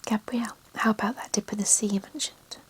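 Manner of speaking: whispered reading, every word unvoiced; ASMR whisper. Real, not acted. Author reading her novel to relaxing listeners, whispered throughout. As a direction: read the story in a hushed ASMR whisper.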